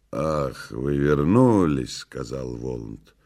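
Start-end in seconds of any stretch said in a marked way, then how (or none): 0.1-2.0 dry mock surprise. Woland hearing that they returned, dry low voice. Woland receives the tale coolly.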